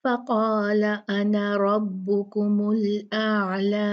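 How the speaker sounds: slow melodic recitation; slow Quranic recitation. Shown as a demonstration. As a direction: chant the verse slowly. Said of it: "अलिफ को नहीं पढ़ेंगे".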